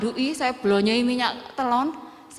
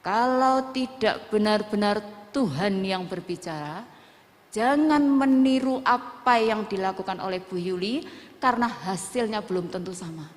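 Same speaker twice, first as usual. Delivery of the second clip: spiritual mentor; 2 semitones lower than usual. Retold or imitated. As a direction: quote a pastor's deliberate warning. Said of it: "Bapak rohani saya berkata apa".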